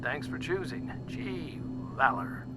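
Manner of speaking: easygoing captain's cabin patter; friendly, lightly relaxed announcement; cheery, relatable. Acted. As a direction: reassure the passengers after turbulence. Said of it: "It was cheery, relatable".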